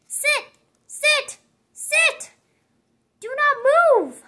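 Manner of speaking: rising, excited sit sit sit; eager orders. Acted. Piggy eagerly telling Gerald to sit still, excited.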